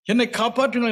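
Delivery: high mock cry for help, gasping man. Dying man begging the crowd, high cry for help. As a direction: call out as if suffocating under the mask. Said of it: "என்று கூச்சலிட்டார்".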